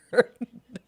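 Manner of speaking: ordinary delivery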